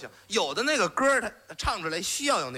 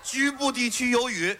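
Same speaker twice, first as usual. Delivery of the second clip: weather forecast voice; 4 semitones higher than usual. Pretend. Mock weather report.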